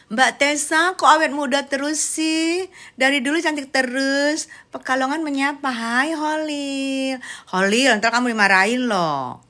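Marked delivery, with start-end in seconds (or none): 0.1-4.5 mock flattery. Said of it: "Oke, aku puji".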